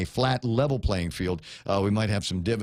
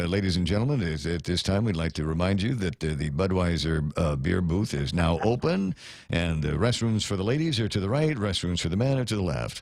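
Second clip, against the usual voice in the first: stadium PA voice; 4 semitones lower than usual. Pretend. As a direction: announce it like the stadium PA. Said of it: "with a deep, uh, P A, stadium P A voice".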